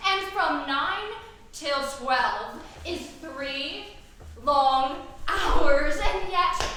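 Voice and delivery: loud exasperated outburst on long hours; fretting lover losing patience, loud; impatient. Acted. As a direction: burst out in frustration at the wait. Juliet impatient waiting for nurse.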